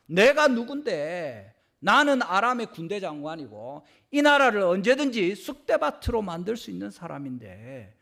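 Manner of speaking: an insulted commander ranting; offended general. Retold or imitated. Naaman fuming that the prophet snubbed him, indignant and loud. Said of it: "이렇게 하는 거죠".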